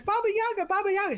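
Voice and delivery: Baba Yaga, Baba Yaga said high in a put-on Russian accent; playful mock Russian Baba Yaga. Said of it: "when he goes".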